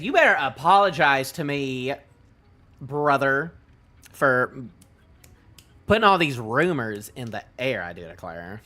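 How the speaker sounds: hammed-up southern accent. Reader voicing a character demanding an apology, southern accent. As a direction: read him as an indignant Southerner. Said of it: "I'm giving him a southern accent".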